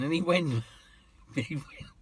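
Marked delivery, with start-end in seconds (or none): 1.0-1.9 laughing through words. Real, not acted. Laughing while retelling.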